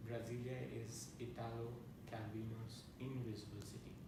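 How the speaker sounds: measured recital with long pauses between lines; incantatory list poem, each line falling to a close; poetry reading. Acted. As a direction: read each line as its own image, then pause. Reads his poem aloud.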